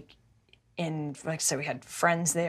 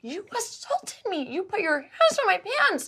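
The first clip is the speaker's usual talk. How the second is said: higher, tense half-yell kept under the breath; yell whisper; 13 semitones higher than usual. Retold or imitated. Confronting S in the hall, a hushed furious yell-whisper. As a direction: hiss it furiously but keep it hushed. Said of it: "yell whispering".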